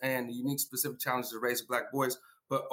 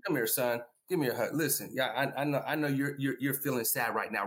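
lower, soothing father comforting his son; 4 semitones lower than usual. Retold or imitated. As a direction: gently reassure the crying boy. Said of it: "Do you say".

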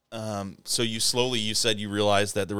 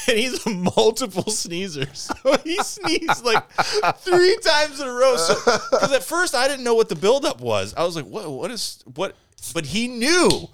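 laughing; 11 semitones higher, 3 dB louder than usual. Real, not acted. Laughing retelling.

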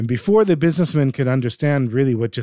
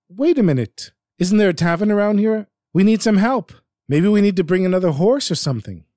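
anxious; 6 semitones higher than usual. Acted. Businessman anxiously questions the young man.

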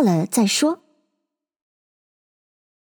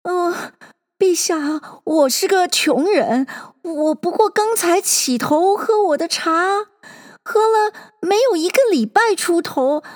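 high trembling nervous voice; frightened hatter, voice shaking; stage fright; 8 semitones higher than usual. A narrator's reading. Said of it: "那帽将声音发抖地说道".

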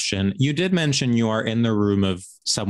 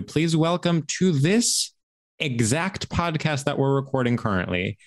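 announcer intro. Acted. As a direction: build up the welcome like a host. Announces guest.

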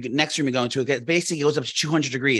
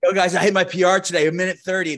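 bro voice; 3 semitones higher, 4 dB louder than usual. Retold or imitated. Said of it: "what is that accent?".

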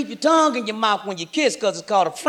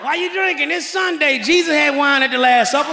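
alcoholic excuse; 5 semitones higher than usual. Retold or imitated.

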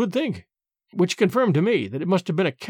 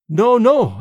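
urgent protest; 4 semitones higher, 7 dB louder than usual. A narrator's reading.

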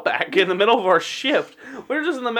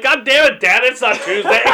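annoyed outburst; 3 semitones higher, 4 dB louder than usual. Pretend. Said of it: "I'm gonna wake up like".

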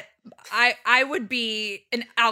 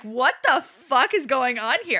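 voicing own body; slower than usual. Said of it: "my body was like".

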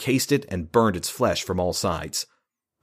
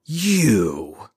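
indignant shout; 2 semitones higher, 4 dB louder than usual. A narrator's reading. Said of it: "Lauren's shout, filled with righteous indignation".

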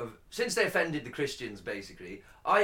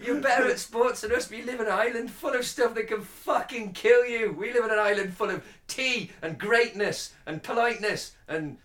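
mock Australian; 4 semitones higher than usual. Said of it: "Sorry, I'm full of shit accents today".

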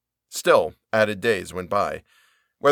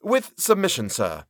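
lightly voiced bland, bowing clerk; a touch of oily deference, high on with; deferential Turkey; 7 semitones higher than usual. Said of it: "blandly and deferentially approached".

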